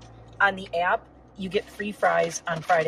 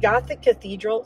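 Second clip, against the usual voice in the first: talking through a burp; a burp catching the words; 2 semitones higher, 4 dB louder than usual. Real, not acted. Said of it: "sorry, I'm, like, burping".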